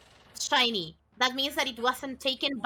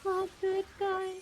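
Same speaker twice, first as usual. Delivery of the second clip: mocking; 7 semitones higher, 4 dB quieter, slower than usual. Mocking Sol's line.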